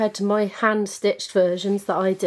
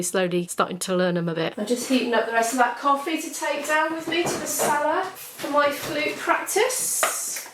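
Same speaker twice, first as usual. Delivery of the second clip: ordinary delivery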